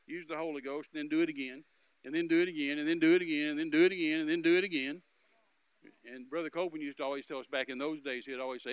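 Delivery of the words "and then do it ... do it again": louder and louder each repeat; preacher urging the church never to stop, building up. Real, not acted. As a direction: hammer it home harder every time. Preaching persistence, rising.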